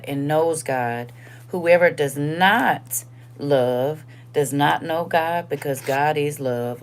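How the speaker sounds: earnest Bible reading; scripture reading. Acted. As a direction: read the verse with weight, slowly. Reads scripture aloud.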